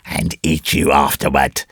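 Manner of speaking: low, slow threat; menacing tribesman. Acted. Man threatens to eat boy.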